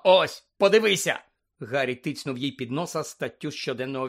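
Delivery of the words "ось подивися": louder, higher, drawn-out exclamation; urgent exclamation. Acted. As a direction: cut in sharply, demanding attention. Breaks off, urges her to look.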